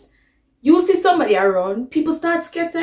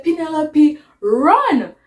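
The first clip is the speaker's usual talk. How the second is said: louder urgent shout to run; urgent call; 4 semitones higher, 6 dB louder, slower than usual. Retold or imitated. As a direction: grab her and yell at her to go. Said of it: "grab Penelope and say".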